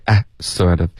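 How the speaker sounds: "哎" as a single vowel before "sort of"; short glideless "哎", then "sort of"; imitating flattened I. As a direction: mimic "哎" in place of the diphthong I. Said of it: "双元音发成哎".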